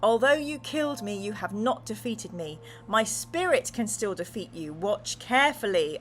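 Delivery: chilling voice. Acted. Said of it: "in a chilling voice".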